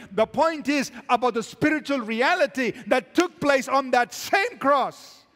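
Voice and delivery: emphatic, rising sermon delivery; forceful preaching. Real, not acted. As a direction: drive each point home to the congregation.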